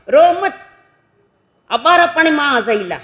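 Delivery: high, loud acted reassurance; hammed-up flustered father; hushing over crying. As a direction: call out over a baby's wailing. Father acted calming crying baby.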